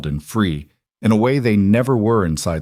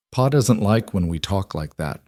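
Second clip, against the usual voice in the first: warning and sadness. Acted. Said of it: "Owen's tone held warning and sadness both".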